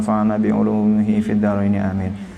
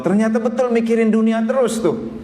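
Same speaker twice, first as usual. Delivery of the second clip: high exclaimed payoff; preacher delivering the joke's punchline to the congregation; amused punchline; 10 semitones higher than usual. Real, not acted.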